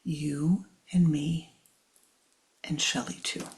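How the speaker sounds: a hint of the loving teacher; loving reassurance. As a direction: gently comfort the disciple. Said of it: "he said with his greatest love".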